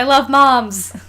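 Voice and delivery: whispered I love moms. Real, not acted. Co-host whispers fondly about moms, voiceless. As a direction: breathe it like a secret.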